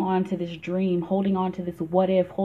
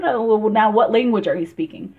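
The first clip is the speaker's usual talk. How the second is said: baffled question; 6 dB louder than usual. Acted. Acting out a confused listener.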